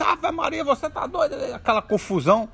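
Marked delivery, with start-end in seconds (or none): 0.0-1.4 high, startled outcry; shocked exclamation. Acted. Man hit on the other leg, high shocked outcry. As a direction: cry out in disbelief after another hit.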